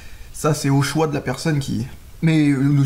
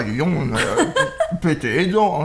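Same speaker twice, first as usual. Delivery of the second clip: slow, laughing through toffee; much slower than usual. Real, not acted. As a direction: laugh with a mouth full of toffee. Toffee breaking teeth.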